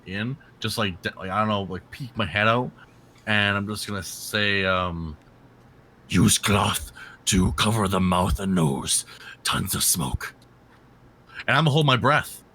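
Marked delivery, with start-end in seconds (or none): 6.1-10.3 slow unvoiced whisper. Character warns quietly in smoke.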